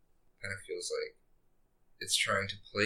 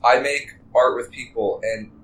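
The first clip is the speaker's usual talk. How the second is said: slow awkward plug; 3 semitones higher, 9 dB louder, slower than usual. Real, not acted. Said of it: "Okay, I'm gonna restart".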